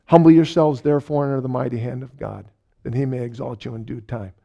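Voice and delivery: quick, fading recitation of a verse; recited verse in mind. Retold or imitated. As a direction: rattle off the verse like a loop in the head. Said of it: "in my mind, I was hearing".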